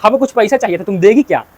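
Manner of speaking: a touch of affection in a quoted plea; retold affectionate coaxing. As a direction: coax lightly, as a retold sweet request. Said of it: "प्यार से बोला".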